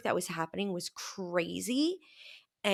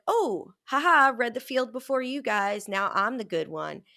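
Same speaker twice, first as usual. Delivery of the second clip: smug; 3 semitones higher, 5 dB louder than usual. Retold or imitated. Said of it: "I was like".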